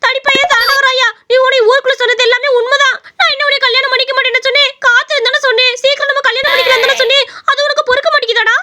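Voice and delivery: high, accusing rant; taunting scold. Acted. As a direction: rub his nose in it, then scold. Woman taunts and scolds the man.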